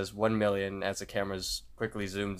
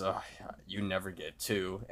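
softer muttered aside; under his breath; 7 dB quieter than usual. Retold or imitated. Muscle Man scratching the second box, under his breath. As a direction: say it half to yourself, quietly. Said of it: "under his breath".

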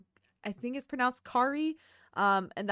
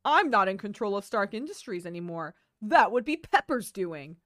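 put-on old man voice; 7 dB louder than usual. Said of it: "You randomly got very elderly".

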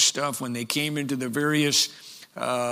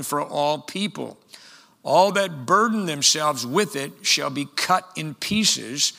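declaimed prophecy, measured phrases with punched key words; scripture reading; 2 semitones higher than usual. Acted. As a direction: read the prophecy out from the pulpit.

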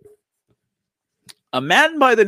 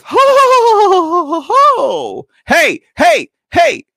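high, loud whoops of delight; loud yelping ho-ho-ho and hey cheer; whooping cheer; 11 semitones higher, 7 dB louder, slower than usual. Real, not acted. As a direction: cheer like at a rodeo. Cheering the Texas sheriff line.

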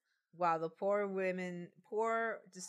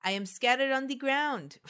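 higher, louder enchanted-water voice; talking feet water; 6 semitones higher, 5 dB louder than usual. Acted. Feet water answering the witches, raised character voice. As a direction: proclaim it as the spilt water. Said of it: "said the feet wa".

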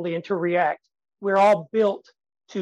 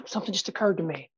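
stage-pause demo line; 5 dB quieter than usual. Shown as a demonstration. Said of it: "and then say".

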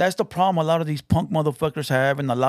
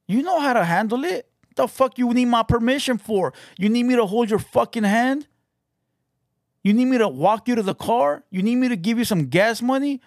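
higher, pushing taunts, one after another; mounting taunts; 5 semitones higher than usual. Real, not acted. Taunting Mugroso to stop barking and act, higher and mocking. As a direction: needle him with each question.

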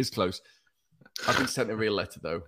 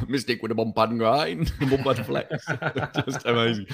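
laughing. Retold or imitated. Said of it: "Me saying".

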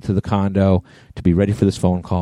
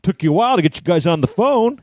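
sarcastic jab; 9 semitones higher than usual. Retold or imitated. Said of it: "I'm like".

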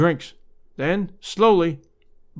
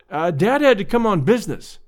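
hurried; 3 semitones higher than usual. Acted.

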